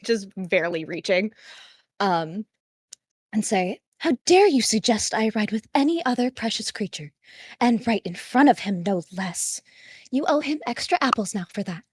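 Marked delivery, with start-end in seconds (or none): 4.0-11.8 higher, fast, hammed-up indignation; teasing a horse rider in fake horror; mock outrage. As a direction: scold him in playful offense.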